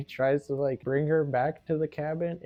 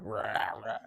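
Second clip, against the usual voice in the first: imitated gator roar; 3 semitones lower, 4 dB quieter than usual. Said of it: "it's a gator, so it's all like".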